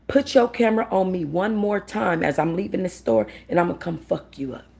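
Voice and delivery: calm, matter-of-fact warning; level, controlled menace; calm threat. Retold or imitated. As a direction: threaten her without raising your voice. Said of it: "I was calm even when I said that".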